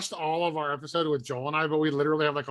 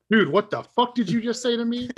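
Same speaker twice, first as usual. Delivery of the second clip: higher-pitched, indignant outburst; mock indignation; 8 semitones higher, 4 dB louder than usual. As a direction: act offended, half joking. Acting out offended reply to accent remark.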